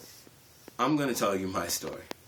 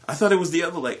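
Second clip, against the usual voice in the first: higher, pointed mock query; suspicious friend; 7 semitones higher, much faster than usual. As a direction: catch him out on the wrong leg. Friends catch the lie.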